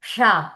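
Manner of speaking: షా said alone as a separate syllable; isolated, falling షా; distinct letter sound. Shown as a demonstration. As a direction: sound out షా on its own. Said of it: "ఇలా చెప్పాలి".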